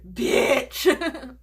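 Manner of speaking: drawn-out laughing bitch; mock sassy bitch with laughter; imitating Page. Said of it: "Page would say".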